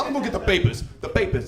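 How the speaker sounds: Jimmy Two Times. Retold or imitated. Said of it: "Jimmy Two Times".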